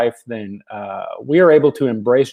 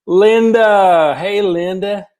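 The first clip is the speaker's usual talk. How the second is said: high, louder happy call of a name; light up at spotting a friend; excited greeting; 7 semitones higher, 4 dB louder, much slower than usual. Real, not acted.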